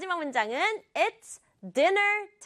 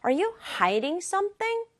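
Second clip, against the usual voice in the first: suspicious; 7 semitones higher, much slower than usual. Shown as a demonstration. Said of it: "이런 표정으로 말하는 거예요".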